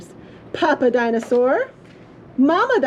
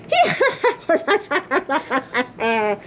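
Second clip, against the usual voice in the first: evil laugh. A narrator's reading. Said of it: "sounded like a big, evil laugh".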